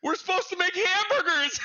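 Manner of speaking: high, loud laughing urgency; telling teammate Dylan to check the order; urgent call. Retold or imitated. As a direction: point out the obvious, loud and amused. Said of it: "I said".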